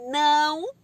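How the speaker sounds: loud, long-held no; parent's alarmed no; bare scolding no. Shown as a demonstration. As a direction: cry out a drawn-out no. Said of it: "em vez de você falar assim".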